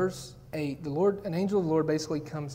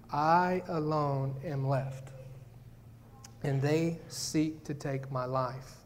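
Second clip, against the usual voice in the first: lonely despair; 3 semitones lower, 4 dB quieter, much slower than usual. Acted. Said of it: "listen to the response".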